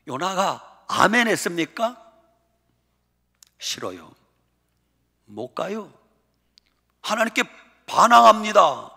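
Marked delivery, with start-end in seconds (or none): 3.6-5.9 low, quiet, stubborn no; sulky refusal. Acted. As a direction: mutter it like a sulking child. Jonah refusing God.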